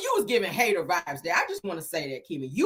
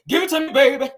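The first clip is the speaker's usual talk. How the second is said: mock sultry singer; 5 semitones higher, 6 dB louder than usual. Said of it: "like she was about to break out".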